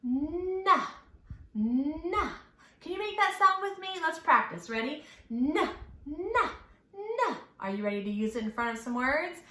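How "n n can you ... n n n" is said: N hummed as a long nasal nnn; letter sound N. Shown as a demonstration. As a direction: hold the N as a buzzing nnn sound. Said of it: "the sound it makes is N".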